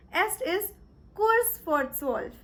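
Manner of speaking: careful, slow German; "drei vor zwölf" said slowly and clearly; slow German demo. Shown as a demonstration. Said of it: "Or you can say".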